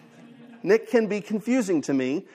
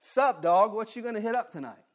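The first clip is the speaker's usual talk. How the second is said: slang greeting; 4 semitones higher than usual. Retold or imitated. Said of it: "If I say".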